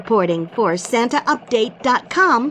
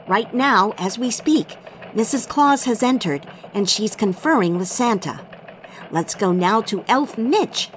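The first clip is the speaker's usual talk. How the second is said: christmas elf. Acted. Elf anchor opens radio newscast.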